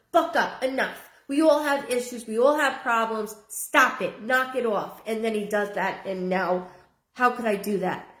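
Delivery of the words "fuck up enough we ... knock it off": exasperated scolding, slightly raised; retold telling-off. Medium voices the son recounting what he told him, retold scolding. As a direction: put your foot down, mildly worked up. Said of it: "But instead I told him".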